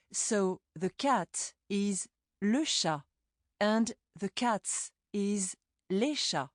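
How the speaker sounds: slow, le and les clearly marked; stress on le and les. Shown as a demonstration. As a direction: lean on le, then les, slowly. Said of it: "is the article le".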